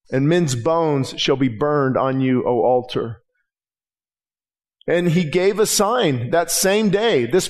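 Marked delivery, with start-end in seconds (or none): 0.1-3.2 lower, slow, grave prophecy; solemn prophet. Acted. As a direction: pronounce doom slowly and low over the altar. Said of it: "He's calling, he said".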